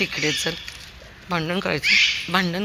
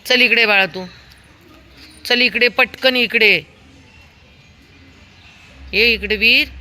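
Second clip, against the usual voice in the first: loud, higher call; loud urgent dog call; 7 semitones higher, 9 dB louder than usual. Real, not acted. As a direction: call him over, hurry him. Calling dog back.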